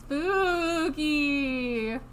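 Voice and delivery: drawn-out ghostly moan. Pretend. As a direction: moan it spookily. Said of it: "this is our ghost intro".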